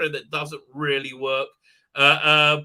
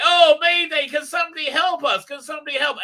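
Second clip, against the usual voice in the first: high, loud hammed-up mayday; mock distress call; 10 semitones higher, 7 dB louder than usual. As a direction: ham it up like a panicking crew on the radio. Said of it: "and so they go".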